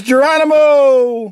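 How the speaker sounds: slow, drawn-out mock yell of "Geronimo!"; a playful, stretched-out battle cry; Bart Simpson yell. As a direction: stretch it out like a kid leaping off something. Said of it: "He says".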